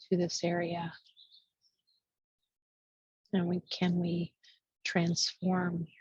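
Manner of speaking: hushed, spacious meditation guidance; guided meditation. Real, not acted. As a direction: ease them inward, pausing between short phrases. Leads a meditation.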